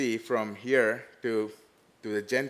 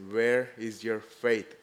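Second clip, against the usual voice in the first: slow searching question; slower than usual. Retold or imitated. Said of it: "he says".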